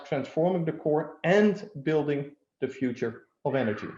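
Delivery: "and" stressed between the two halves. Real, not acted. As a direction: lean firmly on "and" mid-phrase. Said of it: "the emphasis on the word".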